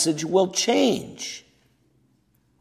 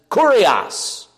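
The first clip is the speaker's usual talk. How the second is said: slow emphatic titles; much slower than usual. Shown as a demonstration. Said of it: "slow emphatic list of titles".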